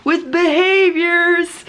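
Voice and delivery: high, drawn-out mock yell; retold yelling. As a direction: call slowly over the chaos, acting it out. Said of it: "I'm, like, having to yell".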